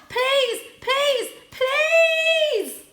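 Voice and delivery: loud, high repeated begging; frantic pleading shout. Acted. Cat begs the charging cars, frantic high shouting. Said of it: "he yelled".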